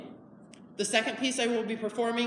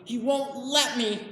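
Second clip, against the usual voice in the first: raised, frustrated insistence; distressed protest; 4 semitones higher, 3 dB louder than usual. Acted. Man losing his promised rabbits, upset. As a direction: protest it louder and higher as it builds.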